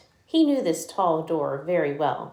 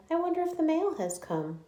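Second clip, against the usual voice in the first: Dandelion voice; 10 semitones higher, 3 dB quieter than usual. Acted. Lion voiced in read-aloud story.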